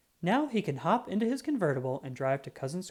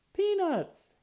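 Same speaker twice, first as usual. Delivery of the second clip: delighted cry; 3 dB louder than usual. Acted. Delighted at gift of peanuts.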